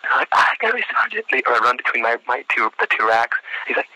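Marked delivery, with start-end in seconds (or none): 0.3-1.3 high-pitched recruit reply; yelled acknowledgement. Retold or imitated. Candidate answering an order from the sergeant, high imitated yell. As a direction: sound off like an obedient recruit.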